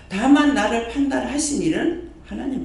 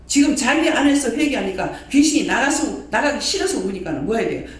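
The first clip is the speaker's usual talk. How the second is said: usual speaking voice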